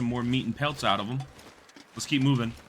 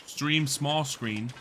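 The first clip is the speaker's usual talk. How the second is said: slow puzzled; 5 dB quieter, much slower than usual. Real, not acted.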